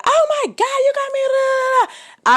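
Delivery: very high, loud mock shriek; hammed-up shrill yell; mock screaming Becky. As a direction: shriek it like a hysterical accuser. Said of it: "get the screaming and yelling".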